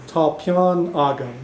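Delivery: slow, careful Irish "Tá peann agam"; teacher modelling Irish; Irish phrase demo. Shown as a demonstration. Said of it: "literally what I'm saying in Irish is".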